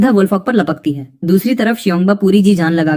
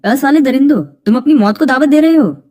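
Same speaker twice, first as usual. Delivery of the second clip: higher-pitched outburst of fury; angry threat; 6 semitones higher than usual. Acted. Hero threatens the beasts after Lingar falls, enraged. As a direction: threaten them as your patience snaps.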